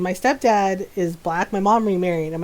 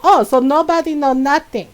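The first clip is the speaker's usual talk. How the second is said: imitating a furious mom, higher and louder; sarcastic scolding mom; mock angry tirade; mom going off; 3 semitones higher, 5 dB louder than usual. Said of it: "she went off on them".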